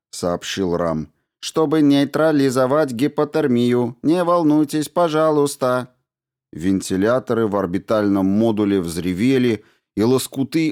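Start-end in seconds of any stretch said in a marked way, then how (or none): 1.4-5.9 polite robot. A narrator's reading. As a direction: greet him like a courteous machine. Robot Ram reassures.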